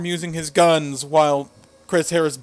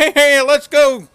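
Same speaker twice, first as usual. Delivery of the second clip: fake cowboy accent, higher and louder; 10 semitones higher, 9 dB louder than usual. Recalling an interview heard in the background: James Storm fake cowboy accent. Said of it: "a really fake cowboy accent".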